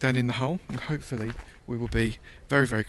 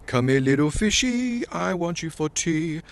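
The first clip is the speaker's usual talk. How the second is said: talking to fish; 5 semitones higher, slower than usual. Pretend. Coaxing fish in game.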